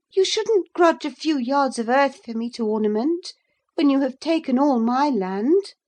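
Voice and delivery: high, loud retort; defiant girl. A narrator's reading. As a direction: throw it back at him. Catherine answers Heathcliff back.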